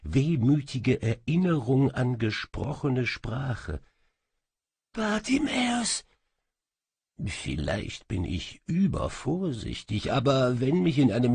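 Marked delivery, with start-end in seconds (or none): 4.9-6.0 high, distant ghostly call of a name; high faraway echoing call; faint echo calling. A narrator's reading. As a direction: call out like an echo from far away. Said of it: "das Echo eines Echos".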